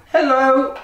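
high-pitched frog hello; friendly frog greeting. Acted. Frog greets the hiding duckling, high and bright.

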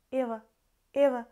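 "Эва" as a quick neutral syllable; reduced ending alone. Shown as a demonstration. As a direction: isolate the slurred ending "Эва". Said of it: "not real O and Е".

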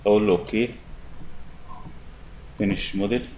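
ordinary talk

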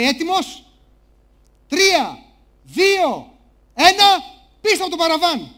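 loud countdown, spaced out; host's countdown. Acted. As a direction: call out the countdown like a show host. Host counts down for George.

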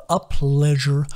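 contented sing-song repeat; calmer echo. A narrator's reading. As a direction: let the joy settle.

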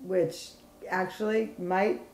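whispering. Real, not acted. Confiding aside to viewers.

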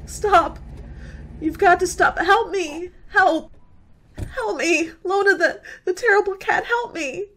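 frantic cries for help at a passing car; desperate call. Acted. Frightened girl stopping a car, calling for help. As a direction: flag them down in panic.

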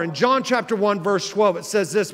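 ordinary delivery

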